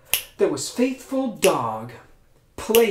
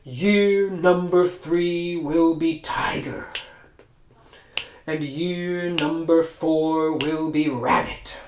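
emperor proclaims; slower than usual. Acted. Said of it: "the Jade Emperor said".

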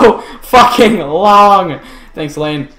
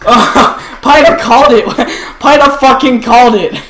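laughing. Real, not acted. Laughing at friend's prediction.

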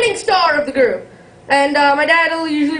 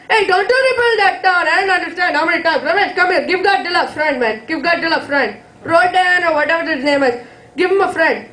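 a hammed-up taunting villain; gloating button pusher; 4 semitones higher than usual. Guy pushing Godzilla button.

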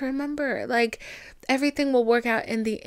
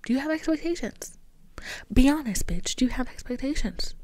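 pushy self-interrogation; 3 semitones higher than usual. Retold or imitated. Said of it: "asking myself".

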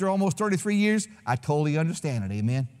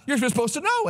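high-pitched imitation of an exasperated wife; mock wifely retort; 7 semitones higher than usual. Wife telling husband he should have known, high mock retort. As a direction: throw it back high, imitating her. Wife's retort in acted quarrel.

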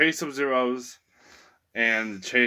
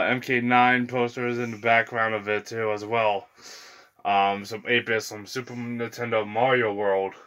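short of breath from talking nonstop; breathless from rattling off a long list; running out of air. Real, not acted. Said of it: "I'm running out of breath as I'm doing this".

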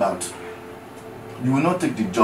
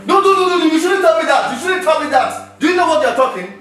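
indignant protest; 6 semitones higher than usual. Acted. Wife furious at husband.

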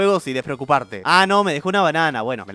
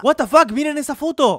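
surprised; 7 semitones higher than usual. Real, not acted. Reacts to a strange photo.

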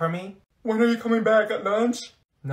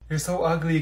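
normal talking voice

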